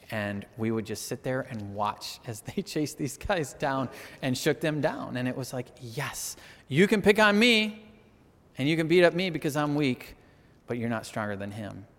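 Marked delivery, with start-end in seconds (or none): 5.8-11.9 defiant little brother. Retold or imitated. Child's defiant taunt at bullies.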